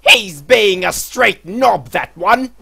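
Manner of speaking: slow, pompous British gentleman; drawn-out upper-class disdain; posh British accent. Acted. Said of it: "My throat's dying from this accent".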